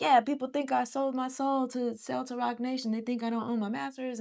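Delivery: flat, soft, deadpan delivery.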